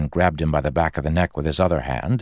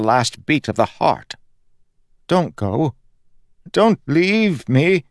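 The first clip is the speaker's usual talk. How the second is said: higher, pleading, breaking voice of a dying god; fading god begs his friend to stay, higher and pleading; desperate plea; 9 semitones higher, 3 dB louder than usual. Acted. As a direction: beg him not to leave. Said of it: "god pleading not to be left".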